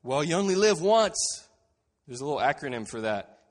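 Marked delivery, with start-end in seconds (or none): 0.0-1.2 loud mock-carefree imitation; loud, breezy mockery; mocking quote. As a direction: parody a flippant believer. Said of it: "heard a Christian say".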